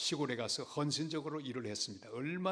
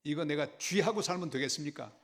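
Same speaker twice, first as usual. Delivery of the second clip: indignant protest, building louder and higher; retold complaint; 3 semitones higher, 4 dB louder than usual. Pastor complaining to God about living with rats, indignant. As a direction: complain upward, pushing harder on the last question. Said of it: "제가 하나님 앞에 불평했습니다".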